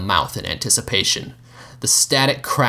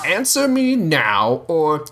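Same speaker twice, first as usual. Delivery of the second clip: slow, higher, forceful demand; angry command; 8 semitones higher, much slower than usual. Acted. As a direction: lose patience and push. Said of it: "the Mouth cursed".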